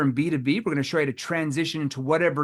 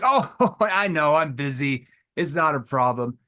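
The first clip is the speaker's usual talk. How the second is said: laughing prospect; slower than usual. Retold or imitated. Prospect won over by the playful salesman, laughing. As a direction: laugh it off, disarmed.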